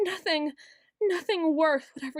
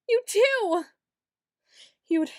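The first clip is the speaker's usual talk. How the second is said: shrill insistence; 7 semitones higher, 4 dB louder than usual. Acted. Insisting accusingly.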